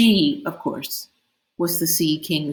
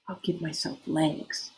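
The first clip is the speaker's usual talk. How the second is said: amused; 8 dB quieter than usual. Acted. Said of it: "with an amused smile".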